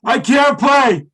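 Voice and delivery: high, loud, drawn-out comic admission; retold blurted confession. Friend confesses at showtime he cannot drum, blurting. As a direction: blurt the punchline slowly and loudly.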